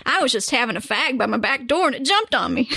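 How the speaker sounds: laughing put-on British accent; a hammed-up British local telling his story; mock British accent. Host reading a bitten villager's quote in a mock British accent. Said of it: "my rendition of how that would go".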